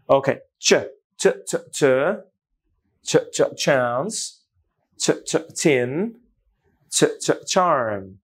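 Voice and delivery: slow চ, চ before chance, chin, charm; crisp ch, drawn out; ch sound drill. Shown as a demonstration. Teacher drilling the ch sound slowly. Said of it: "আমার sound শুনবেন".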